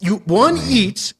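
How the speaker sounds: high, gung-ho director pitch; Tom Six. Acted. Director pitching Human Centipede to actors, high eager pitch. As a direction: sell the outrageous idea with total confidence. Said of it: "now imagine Tom Six, that's the director".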